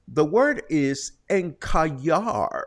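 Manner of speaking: put-on deadpan machine voice with a Spanish accent; imitating the smart speaker. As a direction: mimic a smart speaker stubbornly repeating the Spanish word. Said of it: "she said it with an accent too".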